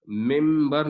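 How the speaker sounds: ممبر said with a clear m where the n would be; m sound. Shown as a demonstration. Teacher showing how the n sounds as m. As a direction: say ممبر letting the n turn into m before the b. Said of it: "خود بخود آپ کے منہ سے میم کی آواز نکلے گی".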